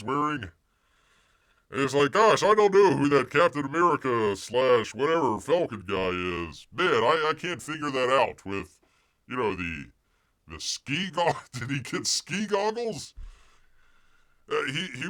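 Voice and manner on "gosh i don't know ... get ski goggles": loud, bumbling mock of the actor, pitch rising at the end; mock confused actor. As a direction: play him as a clueless guy fumbling for words.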